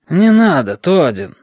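high, loud, annoyed protest; irritated. A narrator's reading. Bearded man stops Todin, irritated. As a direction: shut him down with irritation. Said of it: "раздражённо уронил бородач".

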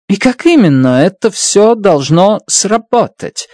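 insistent. A narrator's reading. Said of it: "настаивала Страт".

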